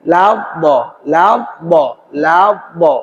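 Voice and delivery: "ladda" with the doubled d swung and flowing. Shown as a demonstration. Teacher drilling ladda for students, flowing. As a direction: let "ladda" swing smoothly. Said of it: "Agak mengalir".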